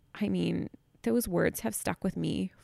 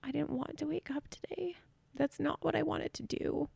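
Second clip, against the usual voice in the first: whispered inner thought; 7 semitones higher, 6 dB quieter than usual. Retold or imitated. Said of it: "And I just thought".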